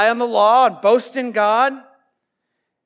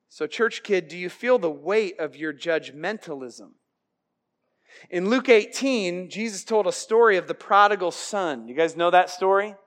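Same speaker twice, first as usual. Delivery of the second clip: usual speaking voice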